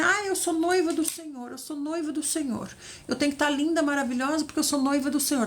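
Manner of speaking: vain bride. Retold or imitated. Preacher mocking her old vain self, mild gush. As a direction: gush about being the Lord's bride. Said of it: "Tava nessa vibe".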